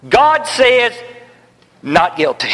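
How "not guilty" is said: laughing delight. Real, not acted. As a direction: break into a joyful laugh.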